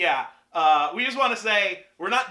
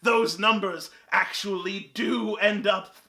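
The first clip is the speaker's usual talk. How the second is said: mock villain rant. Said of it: "This is stupid. I'm gonna stop that".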